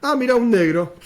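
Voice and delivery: lightly hammed-up surprise at a stranger; typical Argentine, surprised. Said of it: "Andá a decir lo mismo en Brasil".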